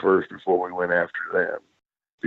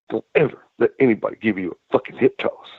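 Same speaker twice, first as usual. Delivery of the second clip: soft, monotone Southern veteran, lightly imitated; Arn; faster than usual. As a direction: give quiet, to-the-point advice in a mild Southern impression. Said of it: "soft, you know, Southern, but it's just soft".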